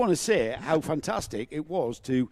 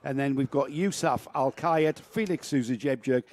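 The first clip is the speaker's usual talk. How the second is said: race commentary. Acted. Reading the grid.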